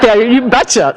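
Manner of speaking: put-on a touch of Wisconsin accent, high and cheerful. Answering the shopper in a folksy Wisconsin accent. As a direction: lean into a folksy Wisconsin betcha. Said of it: "didn't I just sound like Wisconsin".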